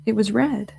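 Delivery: hesitant, mildly tearful little voice; a touch of sniffly sorrow, haltingly; sniffling Piglet. Retold or imitated. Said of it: "Piglet sniffed and said".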